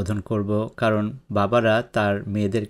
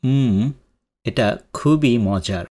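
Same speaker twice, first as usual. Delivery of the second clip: relishing food; 4 dB louder than usual. Acted. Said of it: "খুব মজা করে খেয়ে বলছে".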